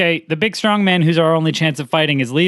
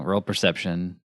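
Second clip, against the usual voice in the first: imitating the DM; 7 semitones lower, 8 dB quieter than usual. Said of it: "The classic D M trick".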